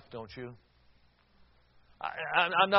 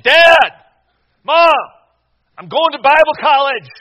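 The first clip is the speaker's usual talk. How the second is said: full shout, much higher and louder; 9 semitones higher, 19 dB louder than usual. Retold or imitated. Son, frustrated, shouts the news at his parents. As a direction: yell it so they can't ignore it. Pulled myself up between them and I said.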